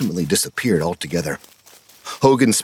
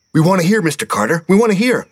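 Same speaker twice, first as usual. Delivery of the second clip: put-on high, loud insistent kid; eager pleading; 12 semitones higher, 4 dB louder, faster than usual. A narrator's reading. Steve begging Mister Carter, high loud plea. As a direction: beg him to keep going.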